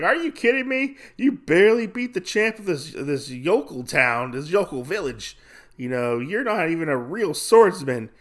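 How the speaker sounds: high-pitched mock disbelief; incredulous scoff. Gambler belittles the swordsman, incredulous.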